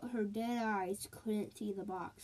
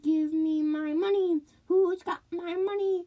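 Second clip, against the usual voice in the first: wailing ghost; 9 semitones higher, 9 dB louder than usual. A narrator's reading. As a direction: moan it out like a dead woman searching for her money. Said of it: "the woman cried".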